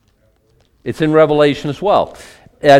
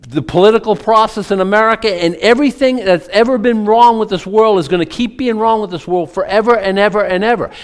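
higher-pitched, mildly worked-up lament; coming unglued; 6 semitones higher than usual. Retold or imitated. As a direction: retell John's despair, piling up the woes in a raised pitch. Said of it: "John just comes unglued at this and says".

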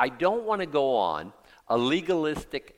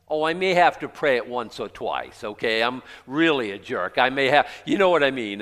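sarcastic; 7 dB louder than usual. Pretend. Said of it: "I'm being sarcastic here".

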